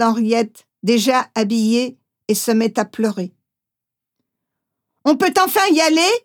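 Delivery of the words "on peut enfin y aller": higher, fast, sharp demand; impatient officer. Acted. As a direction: hurry everyone along, fed up. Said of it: "commande l'agent impatient".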